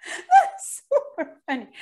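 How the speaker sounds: high, slow, laughing gush. Real, not acted. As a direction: still cracking up at the joke. Laughing after the punchline.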